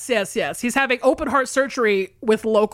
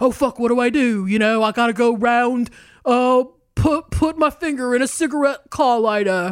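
really bad, fake, unconvincing British accent. Retelling what a man says after breaking his heart battery, in a bad British accent. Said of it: "that's a really bad British".

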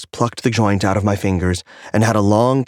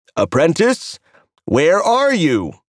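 high, swooping, would-be commanding tone; 9 semitones higher than usual. Calling for the apprentice, hoping Rox won't giggle, attempting a commanding air. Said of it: "attempting a commanding air".

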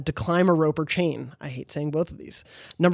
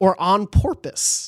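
voice cracking mid-line like puberty. Reading out a trophy name in a quiz: voice cracking. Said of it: "My voice cracked there".

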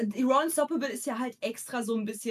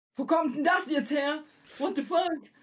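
acted startled, shocked reaction, pitched higher; 6 semitones higher than usual. Recounting a figure suddenly bursting out with a boom, acting out being startled. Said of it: "mich übelst erschrocken habe".

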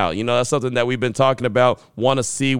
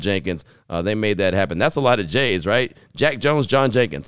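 usual speaking voice

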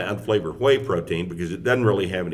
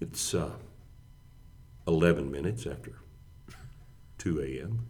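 very slow, unhurried FM radio voice; 3 semitones lower, 11 dB quieter than usual. Giving the time at 2 a.m. on the radio: very slow, unhurried. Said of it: "The FM radio voice is like... Very, very slow, very not in a hurry".

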